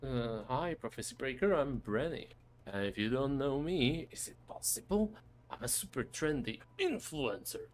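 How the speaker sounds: a lightly voiced pushy influencer; a hint of a smug social media star. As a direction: sell yourself like a trendy influencer, lightly voiced. Voices the influencer character Brenny.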